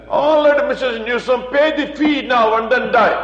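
loud, laughing punchline; doctor telling Mrs Newsom to pay first; mock-blunt doctor. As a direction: deliver the doctor's joke with a laugh. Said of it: "doctor's blunt reply".

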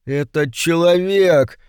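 high, slow, hesitant little demon. A narrator's reading. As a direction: start unsure, pitched high and drawn out. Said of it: "нерешительно начал Йетеринг".

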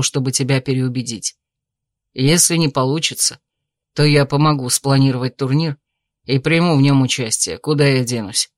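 calm suitor. Acted. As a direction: reason with her gently. Male lead character voice.

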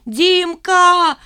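high, loud desperate cry; desperate scream. A narrator's reading. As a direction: scream for help. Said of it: "истошным голосом".

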